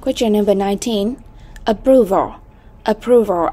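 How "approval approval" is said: "Approval" modelled carefully, a-PROV-al; second-syllable stress. Shown as a demonstration. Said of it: "âm thứ hai".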